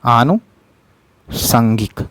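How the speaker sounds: आनुषंगिक drawn out slowly, each syllable with a long आ at the start; slow careful spelling-out. Shown as a demonstration. Teacher spells out the right word for exam students, very slowly. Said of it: "इसे ज़रूर देख लीजिएगा क्या सही है".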